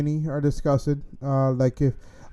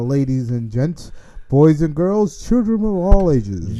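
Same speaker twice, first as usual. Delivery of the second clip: ringmaster announcer; 3 dB louder, slower than usual. Pretend. Cohost hamming up the outro like a circus ringmaster.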